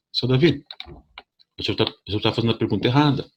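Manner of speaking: gently correcting the patient, unhurried; calm nurse. Retold or imitated. Nurse calmly telling the patient he is asking wrong. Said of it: "com toda a calma dela".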